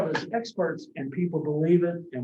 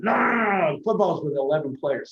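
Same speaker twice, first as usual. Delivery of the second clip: John Madden voice. Retold or imitated. Madden correcting the developers, insistent. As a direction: wave off the programmers like Madden. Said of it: "he kinda talks like this".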